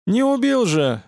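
mock-annoyed grumble, not that bothered; grumbled. A narrator's reading. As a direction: toss it off grumpily. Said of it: "буркнула Зазель".

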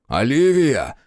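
loud bellow of her name; father roaring a warning. Acted. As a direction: roar at your daughter to stop. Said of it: "взревел отец".

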